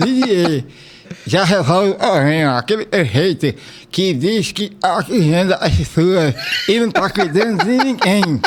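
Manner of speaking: slurred with tongue sticking out. Real, not acted. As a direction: answer with the tongue out. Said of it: "Ninguém imagina a Sargento Rodolfo falando desse jeito".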